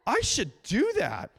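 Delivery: hammed-up wonder, pitched high; amazed realization. Pastor mocking his own reaction to Scripture, exaggerated amazement. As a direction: play up an obvious discovery. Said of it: "and be like".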